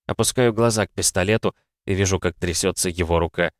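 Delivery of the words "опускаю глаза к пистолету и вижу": usual speaking voice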